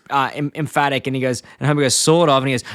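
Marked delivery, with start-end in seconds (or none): 1.9-2.4 small, half-hearted reply; unconfident answer. Retold or imitated. Homer answering Herb's pep talk, lightly acted unsure reply. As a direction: answer without much conviction. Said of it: "No, answer with self-confidence".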